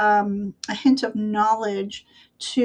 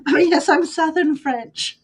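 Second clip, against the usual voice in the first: put-on higher, joking Southern-French accent; 7 semitones higher than usual. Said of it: "it might sound Southern".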